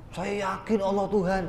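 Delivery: high-pitched put-on declaration; imitated confident believer. Acting out a believer answering the teacher, high put-on certainty. Voices a sure believer's reply.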